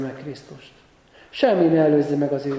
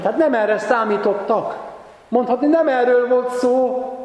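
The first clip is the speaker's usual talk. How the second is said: raised, mounting dramatic retelling; dramatic preaching; 5 semitones higher than usual. Real, not acted. Preacher retelling the disciples' bewilderment at the arrest, dramatic and raised. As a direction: build the shock, pitch climbing at the end.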